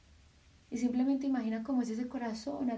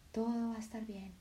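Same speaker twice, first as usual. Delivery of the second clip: softer, tender voice of the heart; the heart speaking; 5 dB quieter than usual. Acted. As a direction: speak as a loving heart comforting. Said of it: "tu corazón simplemente te dice". (el corazón habla, suave y tierno)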